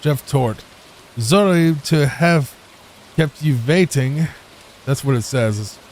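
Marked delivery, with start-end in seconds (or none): 0.0-4.3 light mock German accent; hint of a hammy German accent. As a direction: read it like a German chef, lightly. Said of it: "I'm not trying to do a bad accent".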